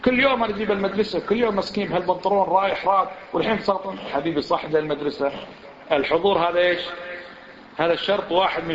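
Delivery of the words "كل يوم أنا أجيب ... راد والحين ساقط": higher-pitched complaining father, hurried in the middle; indignant father. Retold or imitated. Father complaining to the school about his son, higher and indignant. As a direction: voice the aggrieved dad protesting his son failed. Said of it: "يجي الأمي والده يقول".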